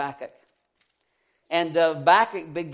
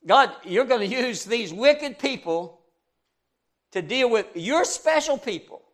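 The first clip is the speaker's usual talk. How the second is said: incredulous protest; 6 semitones higher, 4 dB louder than usual. Retold or imitated. Prophet protests God's plan.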